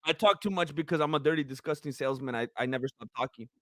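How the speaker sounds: tired, fading voice; losing voice. Real, not acted. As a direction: talk like the voice is giving out. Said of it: "I'm losing my voice".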